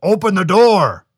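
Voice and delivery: slow, loud, booming giant demands; roaring giant. A narrator's reading. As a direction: roar the orders like a giant. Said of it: "roared the Chenu".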